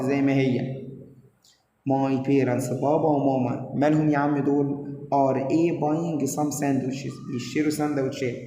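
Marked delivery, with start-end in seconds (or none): 5.1-7.1 slow dictation. Shown as a demonstration. Teacher reading example sentence.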